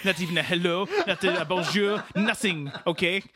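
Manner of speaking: put-on indignant French-Canadian accent; wounded French-Canadian rant; Quebecois Dave. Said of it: "our French-Canadian friend".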